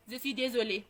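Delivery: low, soft and remorseful; hushed apology. Retold or imitated. Daughter apologising to her mother after a long silence, hushed. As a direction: say sorry very quietly, voice dropped.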